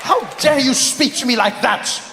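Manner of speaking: high, indignant British officer shout; outraged shout. Acted. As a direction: bellow at the insolent native.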